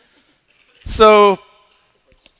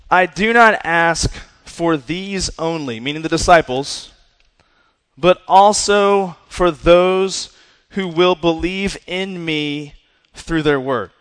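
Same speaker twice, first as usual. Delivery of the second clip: slow, deliberate reading of Jesus' prayer; scripture reading; slower than usual. Acted. Preacher reading verse twenty to the congregation, slow and solemn. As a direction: lay each phrase down slowly.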